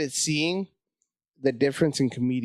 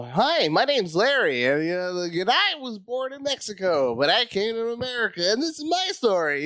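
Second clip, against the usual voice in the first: really white speaking; 8 semitones higher than usual. Retold or imitated. Mocking suit-wearing comics at the contest, high prim voice. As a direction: parody a clean-cut corporate comedian. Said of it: "really white speaking".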